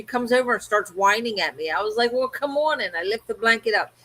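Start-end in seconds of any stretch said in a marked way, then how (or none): 2.1-2.8 slightly raised, mildly put-out invitation; mild retold giving-in. Owner letting whining dog under blanket, mildly resigned. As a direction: give in with a small lift in pitch.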